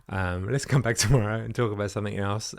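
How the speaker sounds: laughing nervously through the words; a small embarrassed laugh breaks in; nervous giggle mid-sentence. Real, not acted. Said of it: "I'm laughing out of nerves".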